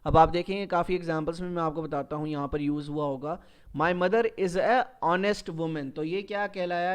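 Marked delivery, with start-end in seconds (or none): 3.8-5.9 slow wrong example. Shown as a demonstration. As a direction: read slowly and clearly, with a plain "a" before honest. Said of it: "یہ ہمارا غلط جملہ ہو گیا". (غلط جملہ، آہستہ اور صاف "a honest")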